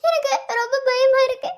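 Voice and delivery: crying and begging through tears; sobbing plea. Acted. Pregnant girlfriend begging Kavin to come back, sobbing. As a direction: sob out the plea to come home.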